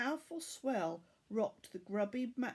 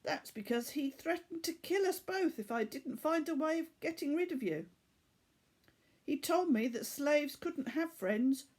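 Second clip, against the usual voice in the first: higher, rushed outburst; burst out; 5 semitones higher than usual. Acted. Tariq to Laura, bursting out his defence. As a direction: blurt it all out at once. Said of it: "Tariq burst out".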